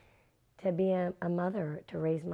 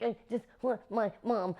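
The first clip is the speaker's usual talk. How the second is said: mock whimper, breath catching; choked up; 5 semitones higher than usual. Actress answering director after scene, mock tearful whimper. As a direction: whine it like a shaken child. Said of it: "choked up and roughed up".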